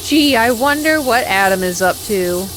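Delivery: playful loud fake wondering; mock musing. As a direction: say it like you're fishing for attention. Mock repeat of own line.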